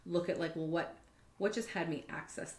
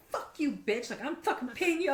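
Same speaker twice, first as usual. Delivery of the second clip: higher, louder, laughing through a mock rant; laughing mock outrage; 10 semitones higher, 8 dB louder than usual. Retelling her reaction to a mentor, laughing mock outrage. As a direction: fake fury cracking into laughter.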